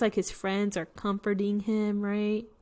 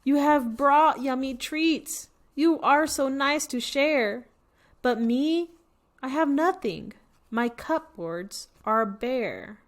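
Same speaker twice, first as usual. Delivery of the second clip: mild sad bear; 4 semitones higher than usual. Acted. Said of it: "Bear sighs, and he moans".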